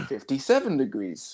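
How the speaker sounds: slow, soft deadpan readout; talking fridge. Pretend. Friend mocks the broken fridge, slow soft robotic readout. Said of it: "Meanwhile, the fridge is like".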